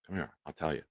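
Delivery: conspiratorial hush. Acted. Leaning in to share a secret.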